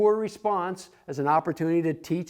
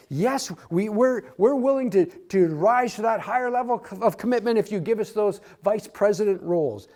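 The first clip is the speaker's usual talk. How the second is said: lightly voiced, a bit higher, pleading a deal; mildly mock the disciples' offer; a hint of eager disciples bargaining; 5 semitones higher than usual.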